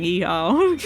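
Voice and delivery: whooped Southern yeehaw, rising at the end; put-on Southern accent. Shown as a demonstration. Streamer showing viewers a Southern accent, put-on Southern twang. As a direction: do a playful Southern cowboy whoop. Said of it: "try and do a Southern accent".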